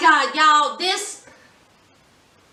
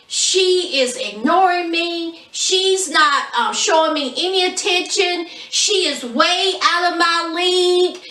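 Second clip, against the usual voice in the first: mock crying. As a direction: drag it out like a mock-sulking teenager. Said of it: "is outside crying like a thirteen-year-old girl".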